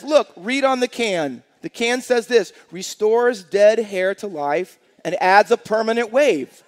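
loud, slow, spelled-out reading of the can; punchline read. Acted. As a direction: land the punchline loud and deliberate. Lady reads punchline off can.

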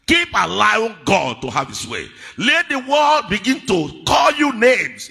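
loud, emphatic sermon voice; forceful preaching. Acted. Preacher telling believers to let God have his way, forceful preaching. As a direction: push each phrase out to the congregation.

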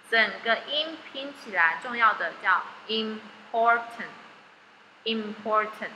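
slow "important, important" with syllables joined; blending the whole word. Shown as a demonstration. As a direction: join the syllables into "important" slowly. (慢慢把important拼读出来)

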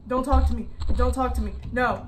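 loud, insistent repeated plea; panicked repeating. Real, not acted. Gamer yelling at the creature in panic. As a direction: keep pleading it loudly over and over.

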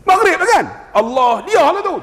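high, loud rhetorical scolding; exasperated preacher. Real, not acted. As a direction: needle the congregation with a high jab. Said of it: "takkan nak niat subuh".

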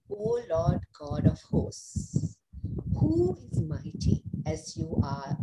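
scripture read aloud together; measured group reading of a psalm; many voices in unison. Acted. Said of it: "read it aloud together".

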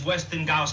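Westinghouse said with a G, "Westing-gauss"; mispronounced Westinghouse. Acted. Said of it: "It's not Westinghouse, it's Westinghouse".

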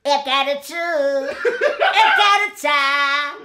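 helium voice. Real, not acted. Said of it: "eu quero fazer essa voz".

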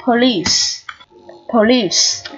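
"police" with a long "ee" ending in S; long EE sound. Shown as a demonstration. Teacher shows learners the long vowel, clearly modelled. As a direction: model "police" as "puh-LEESE". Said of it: "phát âm là âm Y dài".

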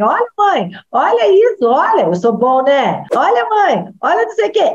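a hint of an eager little boaster; bragging kid. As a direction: call mom over to show off. Child bragging to mother.

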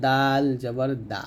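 light "দা" with open aa; thin letter. Shown as a demonstration. Teacher contrasting letters for learners, "দা" said thin. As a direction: say "দাল" and "দা" thin, without rounding. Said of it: "পাতলা হবে".

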